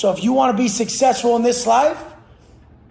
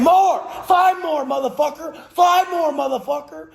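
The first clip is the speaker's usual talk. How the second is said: pushing through reps; 5 semitones higher than usual. Pretend. Coaching yourself in a workout, a pushy gym chant. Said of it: "are you saying".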